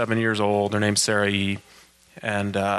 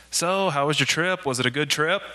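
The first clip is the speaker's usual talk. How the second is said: eager question; 6 semitones higher than usual. Retold or imitated. People asking about his trip.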